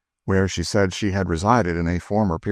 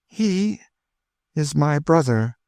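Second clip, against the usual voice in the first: tearful; 9 semitones higher, slower than usual. A narrator's reading. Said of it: "burst into tears".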